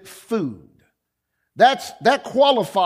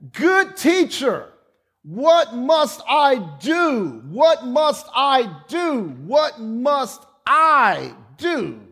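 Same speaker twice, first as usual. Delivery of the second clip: slow, high, desperate plea of a kneeling man; pleading man; 4 semitones higher, much slower than usual. Acted. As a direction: beg the teacher, drawn out and urgent. Man begging Jesus.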